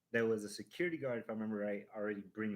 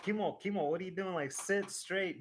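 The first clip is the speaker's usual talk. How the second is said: higher, louder alarmed call, slowing at the end; 9 semitones higher, 4 dB louder than usual. Retold or imitated. Uncle to Kimo slumping on the ride, alarmed call. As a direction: call his name in alarm, then tell him to sit up. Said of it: "And I was like".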